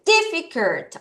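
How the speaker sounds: Difficult with the first syllable stressed. Shown as a demonstration. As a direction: punch the DIF at the front of Difficult. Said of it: "앞에 강세". (Difficult 첫 음절에 강세)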